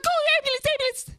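high, loud frantic plea; panicked scream. Acted. Begging Pigtail while he slaps Shane, panicked scream. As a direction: scream it again and again in alarm.

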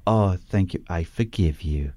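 sugary mock forgiveness, dropping soft at the end; lightly voiced sham guru being gracious; passive aggressive guru. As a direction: imitate a smug new age guru. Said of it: "passive aggressive platitudes".

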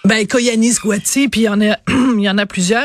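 hoarse, losing her voice; strained voice, clearing throat; voice giving out. Real, not acted. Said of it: "je suis en train de perdre la voix".

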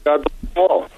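distant crackly phone line; bad connection. Real, not acted. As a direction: caller fading on a weak line. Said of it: "We got a bad connection there".

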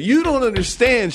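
high, slow imitation of exasperation; exasperated cousin. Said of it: "that's exactly what he said".

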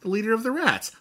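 very high, slow, drawn-out question and answer; hammed-up, high-pitched film character; acted movie quote. Partners quoting The Secret of Nimh, high mock dramatics.

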